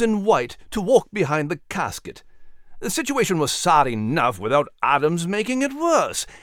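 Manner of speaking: indignant British officer, emphatic; angry. Acted. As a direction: build an angry case against a troublemaker. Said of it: "he surmised angrily".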